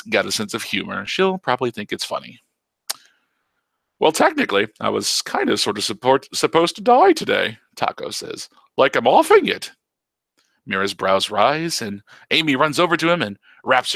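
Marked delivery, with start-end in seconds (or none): 4.0-7.6 put-on old uncle teasing his niece in a silly voice; teasing old Taco. 8.8-9.7 much higher, louder cartoonish old man; old uncle teasing his niece in a silly voice; teasing old Taco.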